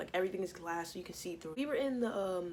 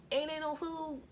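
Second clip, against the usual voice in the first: mock whine; 8 semitones higher than usual. Mock wail about no food.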